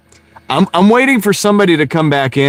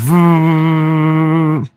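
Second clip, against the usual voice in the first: fan noise impression; 6 semitones higher than usual. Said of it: "that's my impression".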